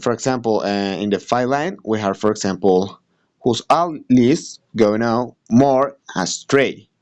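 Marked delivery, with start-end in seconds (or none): 3.4-6.9 "Whose all leaves go now more astray" slowly, in separated beats; slow down "Whose all leaves go now more astray" and pause between the feet; iambic scansion. Shown as a demonstration. Student showing another iambic line, slow measured scansion. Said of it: "it means that it's a iambic too".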